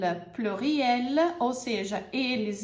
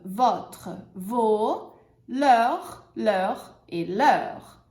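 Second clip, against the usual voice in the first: slow, clear drill of each word; teacher drills possessives slowly; pronunciation drill; slower than usual. Shown as a demonstration. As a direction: lead the class through repetition.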